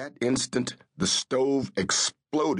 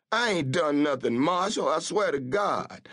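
scared pleading; 7 semitones higher than usual. A narrator's reading. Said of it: "began talking in his native dialect".

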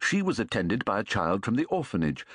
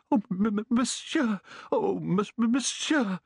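higher, flustered stammer on monsieur; stammering old man; 9 semitones higher than usual. A narrator's reading. Old man stammering with joy at the guest. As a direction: trip over the word in excitement. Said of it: "He kept stammering".

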